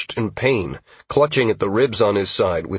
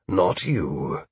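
stern correction; 3 semitones lower, 4 dB quieter than usual. Acted. Commander singles out the hero.

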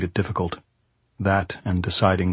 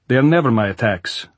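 raised, rising frustration; exasperated general; 3 semitones higher, 5 dB louder than usual. Acted. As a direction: vent at the lost attacks. Goltz bitter reply.

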